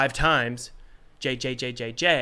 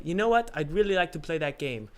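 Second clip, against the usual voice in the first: light Indian accent, lightly put on; a hint of an Indian accent; 4 semitones higher than usual. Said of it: "that was like an Indian accent".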